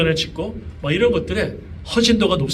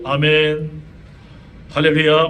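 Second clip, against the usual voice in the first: mock-devout, drawn-out praise; pious praying child; 3 semitones lower, slower than usual. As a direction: imitate a dutiful child praying at home. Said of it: "집에서는 아주 기도할 때도".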